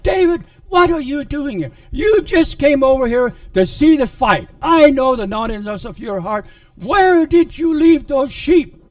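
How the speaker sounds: loud, high rebuke, shouting the last line; big brother scolding young David. Acted.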